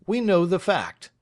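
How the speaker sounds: Snitchey settles it firmly; Snitchey asserting. Acted. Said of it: "repeated Craggs".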